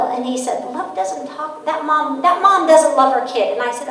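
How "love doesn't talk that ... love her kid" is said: lightly voiced small boy, pitched higher; a hint of an earnest little kid; little son. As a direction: imitate a young child insisting. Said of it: "my son was so little".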